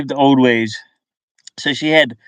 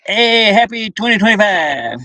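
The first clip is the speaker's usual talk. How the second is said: cheery greeting; 8 semitones higher than usual. Real, not acted. Greeting chat for New Year.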